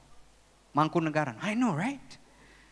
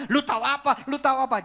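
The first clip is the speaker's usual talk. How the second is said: mock heated retort, pitched up; worked-up defensiveness; 5 semitones higher, 4 dB louder, faster than usual. Defensive listener brushing off someone's advice, heated. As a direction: snap back defensively, punchy and high. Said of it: "semakin bergejolak, kita bilang".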